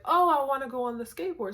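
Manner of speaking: put-on high, loud childish whine; mock whiny little kid. Childish whining to go skateboard.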